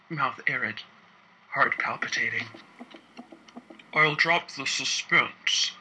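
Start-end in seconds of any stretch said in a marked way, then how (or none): 3.9-5.7 uncomfortable boss. A narrator's reading. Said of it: "he begins uncomfortably".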